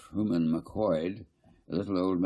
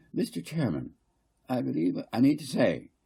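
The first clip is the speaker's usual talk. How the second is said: higher, louder, insistent council speaker; fussy councillor Garth; 7 semitones higher, 3 dB louder than usual. Acted. Garth lecturing the council, higher and insistent. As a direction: press the point, repeating I mean to say.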